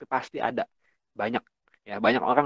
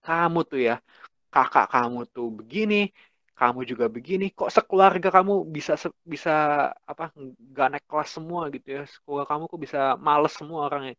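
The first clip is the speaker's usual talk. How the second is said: mock scolding teacher; 4 semitones higher than usual. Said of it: "guru ini bilang ke anak itu".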